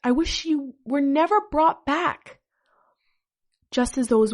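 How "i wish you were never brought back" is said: high, loud mock-furious outburst; angry yell. A narrator's reading. Hurt fan lashing out at the revived idol, mock angry yell. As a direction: hurl it out higher and louder, hammed-up. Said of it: "I yelled at him".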